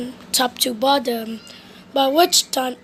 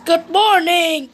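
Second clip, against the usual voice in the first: cried out; 4 semitones higher, 4 dB louder than usual. Acted. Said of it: "cried Mister Busy".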